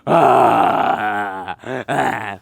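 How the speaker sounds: loud wailing cries, far from his own voice; imitated madman screams. Imitating the crazed cellmate's loud wailing screams. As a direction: howl like someone seeing things. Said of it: "comme ça".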